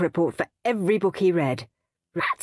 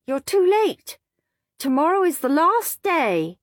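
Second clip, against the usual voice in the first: higher, smug goody-goody voice; prim little brother; 6 semitones higher than usual. A narrator's reading. Peter taunting Henry about the deadline, smug and prim. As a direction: gloat sweetly at your brother.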